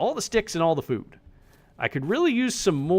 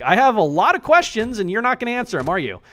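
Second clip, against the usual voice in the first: higher, louder skeptical question; incredulous; 6 semitones higher, 3 dB louder than usual. Retold or imitated. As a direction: push back in disbelief. His own retold reply.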